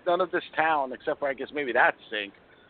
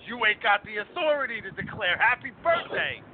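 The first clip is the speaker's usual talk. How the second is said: imitating a deadpan line; 5 semitones higher than usual. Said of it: "he delivered it great".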